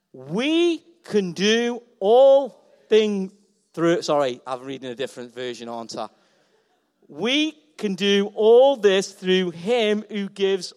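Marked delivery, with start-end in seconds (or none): 0.1-4.0 slow, measured read-along; slow group reading. Shown as a demonstration. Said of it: "Let's read it all together". 7.1-10.7 slow group reading. Shown as a demonstration. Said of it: "Let's read it all together".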